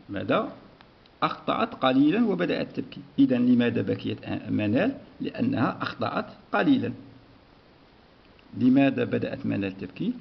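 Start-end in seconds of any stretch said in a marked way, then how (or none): none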